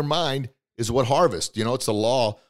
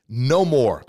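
louder, punched refusal; firm no more; 6 dB louder than usual. Shown as a demonstration. Speaker voicing the listener's resolve, firm and louder. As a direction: say it like you mean it. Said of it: "you're telling your subconscious mind".

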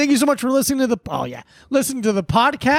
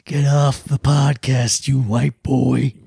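shouting at trespasser; 9 semitones lower, slower than usual. Acted. Shooing listeners off, old man bit.

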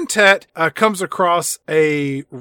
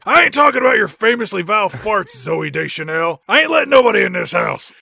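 mock gruff refusal; 4 semitones higher than usual. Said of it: "the guy inside is like".

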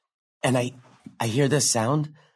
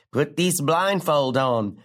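slow, lightly faked Australian boyfriend; bad Australian accent; slower than usual. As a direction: draw it out in a poor Australian accent. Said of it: "doing a terrible Australian impression".

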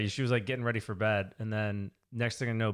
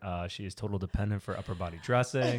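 clinical report voice. Retold or imitated. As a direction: dictate it like a therapist's chart. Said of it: "patient is".

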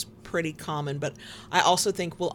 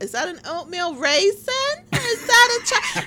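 put-on confused old person; 13 semitones higher, 5 dB louder than usual. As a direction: fuss over the cookies like an old person. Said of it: "two old people go".

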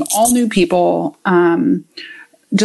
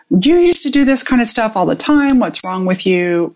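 judging inner voice; 2 semitones higher than usual. Retold or imitated. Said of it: "my thinking part started judging".

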